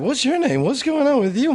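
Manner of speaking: high-pitched mock girls calling out; imitated hollering girls. Girls trying to get to the star, high imitated holler. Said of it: "So they were just like".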